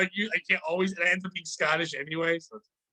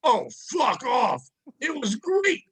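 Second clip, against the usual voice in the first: mock offense; 4 semitones higher, slower than usual. Real, not acted.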